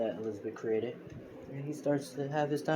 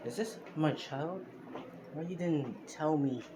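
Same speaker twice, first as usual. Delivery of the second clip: slow, higher, disbelieving questions; shocked question; 5 semitones higher than usual. Acted. Kill asking Elizabeth about his child, slow and shocked. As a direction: let the shock slow every word.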